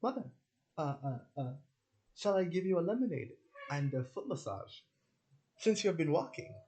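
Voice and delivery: high, loud, overly sweet offer; child doting on mother, pitched high. Retold or imitated. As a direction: play the devoted child offering lemonade. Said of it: "I'm like".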